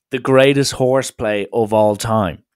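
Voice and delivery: mock hyped announcement of the greatest horseplay. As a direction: boom it out like the viral clip. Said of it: "This is".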